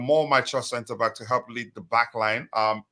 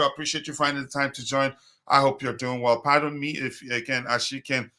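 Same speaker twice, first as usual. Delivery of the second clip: hoarse, worn-out voice; losing voice. Real, not acted. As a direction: voice going from overuse. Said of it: "I sound like I'm losing my voice".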